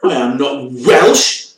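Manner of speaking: slow, emphatic mock outrage; hammed-up affront; mock indignation. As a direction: play offended, dragging each word out slowly. Mock offence at being called Welsh.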